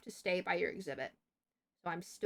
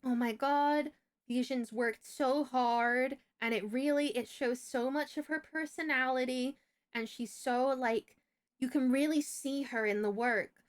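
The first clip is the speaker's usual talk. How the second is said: slightly raised, drawn-out teacherly praise; gushing teacher; 3 semitones higher, slower than usual. Retold or imitated. Teacher praises student's work to her mom, mildly gushing imitation. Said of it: "And they're like".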